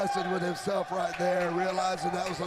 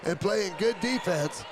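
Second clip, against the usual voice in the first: excited; 4 dB louder than usual. Real, not acted. Fired-up praise of team.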